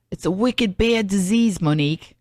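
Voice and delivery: badly faked Boston accent. Quoting her Boston friend on a new disease, in a shaky-at-best Boston accent. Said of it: "I can't do a Boston accent".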